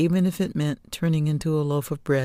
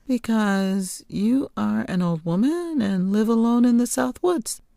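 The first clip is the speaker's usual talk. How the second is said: put-on earnest child answer; 7 semitones higher than usual. Girl answers witch earnestly.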